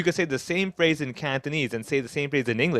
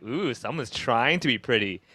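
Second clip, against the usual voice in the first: mock compliment with a sarcastic edge; 3 semitones lower than usual. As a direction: let the insult show through the compliment.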